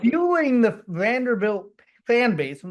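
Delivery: slurred words with no teeth; gummy toothless talking. Real, not acted. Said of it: "it's hard to talk with no teeth".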